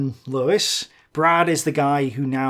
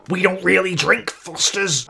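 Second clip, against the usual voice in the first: a hammed-up Aussie voice, higher and louder, protesting; indignant Australian accent; mock Australian accent; 6 semitones higher, 6 dB louder than usual. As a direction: play an offended Australian bloke in a thick Australian accent. Mock Australian retort to joke.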